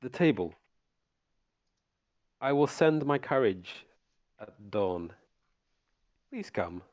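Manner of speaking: slow, polite host's invitation; courtly vampire invitation. Acted. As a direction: invite them graciously, drawn out. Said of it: "he says".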